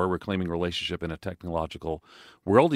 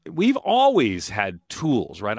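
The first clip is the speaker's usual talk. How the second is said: slow, tired jet lagged voice; 2 semitones higher, 5 dB louder, much slower than usual. Real, not acted. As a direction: sound worn out from jet lag. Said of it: "if I sound a little jet lagged".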